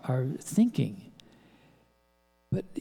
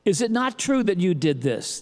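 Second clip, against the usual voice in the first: pressing accusatory lawyer tone; a cross-examiner's loaded question; loaded leading question; 4 semitones higher, 4 dB louder than usual. Shown as a demonstration. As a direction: trap them with the question. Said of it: "a wrong question".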